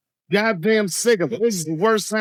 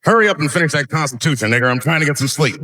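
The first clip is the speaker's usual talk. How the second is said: a lightly put-on slave calling out to the founders, louder and fast; founding fathers impression; 4 dB louder, faster than usual. Comic telling founding fathers to finish the Constitution, a touch louder and fast. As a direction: hurry them up like a tired servant, loud. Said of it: "my impression of the founding fathers".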